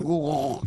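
long guttural camel noise; comic animal noise; imitated camel groan. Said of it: "and the camel went".

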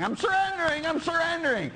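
mock protest. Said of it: "you're not surrendering".

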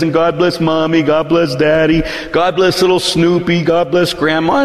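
lightly voiced child's bedtime prayer, singsong; praying little daughter. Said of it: "as we were praying, she says".

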